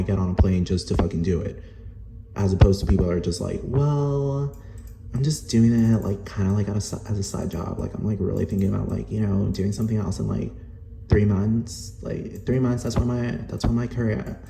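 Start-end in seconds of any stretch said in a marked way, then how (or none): 3.6-14.4 put-on Valley Girl talk. Airline worker mimicking a coworker calling it a side job, mock Valley Girl. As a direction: imitate a rambling Valley Girl. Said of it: "Valley Girl talk".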